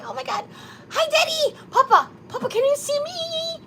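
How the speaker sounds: over-the-top character bit, voice way up; comic put-on character. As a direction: ham up a nervous TV guest. Comic skit as "the Big Korean.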